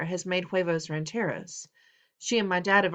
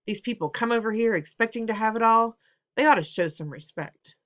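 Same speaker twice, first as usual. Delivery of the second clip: stern indignant father; 4 semitones higher, 5 dB louder than usual. Acted. Father's angry rant at dinner.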